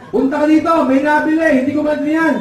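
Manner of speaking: high summoning call; father calling out. Acted. Father calling his son over, calling out. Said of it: "Ang ginawa ng tatay".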